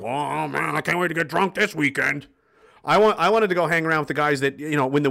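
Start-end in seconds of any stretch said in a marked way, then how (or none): 0.0-2.3 lazy slacker. Retold or imitated. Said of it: "lazy guys and the fat guys".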